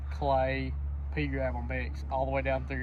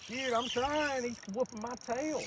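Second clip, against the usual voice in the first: fighting a fish; 11 semitones higher than usual. Real, not acted.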